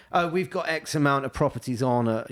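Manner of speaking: lightly posh, airy quote; a hint of a posh agent boasting. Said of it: "I put on a posh voice then".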